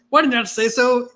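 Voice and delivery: sudden high eager cry; eager outburst. Retold or imitated.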